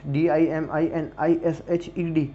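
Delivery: D I एम I N I S H E D spelled slowly letter by letter; spelling it out. Shown as a demonstration. Teacher spelling diminished for the class, slow and letter by letter. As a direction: spell the word out one letter at a time. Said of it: "डिमिनिश्ड".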